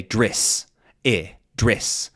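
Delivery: "driss" for dress, New Zealand accent; New Zealand vowel. Shown as a demonstration. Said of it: "they might say".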